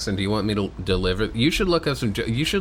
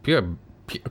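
mock British accent; 8 semitones higher than usual. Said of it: "a different voice for each of these".

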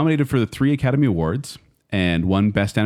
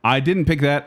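slightly higher-pitched mock Australian accent; put-on Australian accent; 5 semitones higher than usual. Podcast guest admitting he didn't pick that film, mock Australian accent. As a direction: slip playfully into an Australian accent. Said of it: "I don't know why I'm doing the accent again".

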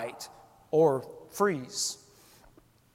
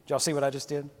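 smug bragging; 4 dB quieter, faster than usual. Retold or imitated. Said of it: "I could see it being me".

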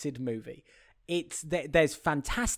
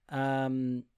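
ordinary delivery

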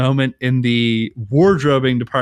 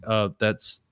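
awkward discomfort; 4 semitones lower, slower than usual. Retold or imitated. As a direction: object haltingly, half laughing. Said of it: "a really awkward moment".

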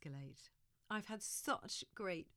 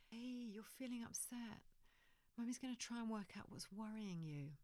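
gentle acknowledging; 3 semitones higher, 3 dB quieter than usual. Shown as a demonstration. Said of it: "we can say".

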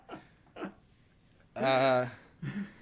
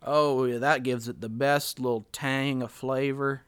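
Bill Clinton impression; 5 dB louder than usual. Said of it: "Oh, Bill Clinton".

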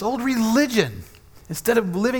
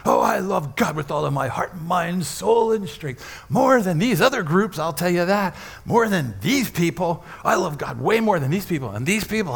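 mock boastful Peter; 3 semitones lower than usual. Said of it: "That's how Peter talks".

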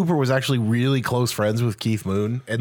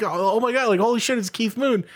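higher, starstruck inner voice; starstruck thought; 8 semitones higher than usual. Retold or imitated. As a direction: gasp inwardly at meeting your idol, pitched up. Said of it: "And she's like".

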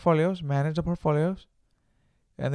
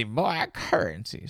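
slow, cracking voice; slower than usual. Real, not acted. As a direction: let the voice crack. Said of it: "my voice cracks from time to".

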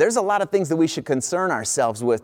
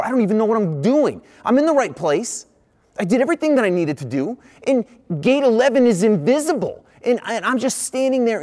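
panicking as the gate won't appear; rising panic; 7 semitones higher than usual. Retold or imitated.

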